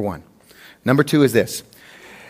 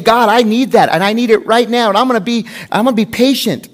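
higher, louder insistent plea; insistent prayer; 5 semitones higher, 3 dB louder than usual. Acted. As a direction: press God, acting out an impatient prayer. Acting out an impatient prayer to God.

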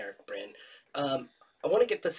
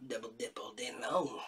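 whispered; 3 semitones lower, 6 dB quieter than usual. Real, not acted. Joking about double dipping.

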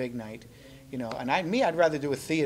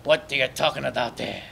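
new puppet voice. Acted. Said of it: "threw another voice at him".

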